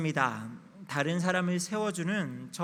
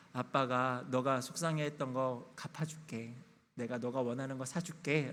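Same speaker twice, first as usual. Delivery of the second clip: slightly softened, lower comforting voice; retold soothing; 4 semitones lower, 3 dB quieter than usual. Father consoles his upset daughter, mildly soothing. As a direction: gently make it up to a child, understated. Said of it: "라고 이야기하고 달래줬더니".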